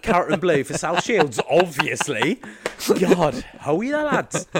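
loud, high Geordie shout-out; put-on Geordie accent. Shown as a demonstration. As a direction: greet the lads in hammed-up Geordie. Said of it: "I'm an accent chameleon".

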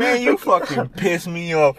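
drawn-out scolding line; slow mock parent scold. Friends act out the dad scolding the kid, slow. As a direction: lay it on slow like an angry dad. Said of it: "they're like".

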